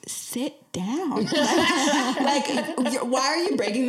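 giggling through the words; laughing sit down. Retold or imitated. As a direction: laugh while telling him to sit. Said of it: "and I'm like".

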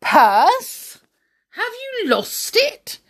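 high, alarmed questions; anxious. A narrator's reading. Saucepan Man fearing a purse is lost, high and anxious. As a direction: voice jumping up in worried surprise. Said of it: "said the saucepan man anxiously".

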